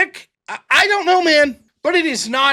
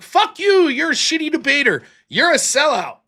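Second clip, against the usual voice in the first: mock insult; 5 semitones higher than usual. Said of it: "I'll be like".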